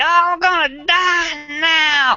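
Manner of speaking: very high, very slow, shrill agonized cackle. Voicing the Night Hag struck by lightning: Night Hag cackling in agony. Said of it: "she howls in pain and cackles with the agony and is like".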